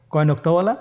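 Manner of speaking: ordinary delivery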